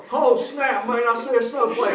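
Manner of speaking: lightly voiced redneck spotter; a touch of excited country lookout. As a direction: play a mildly alarmed redneck. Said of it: "there's some redneck up in a fire tower".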